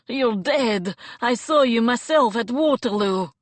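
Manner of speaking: loud, disbelieving outburst; shouting. Acted. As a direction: yell it in horrified disbelief.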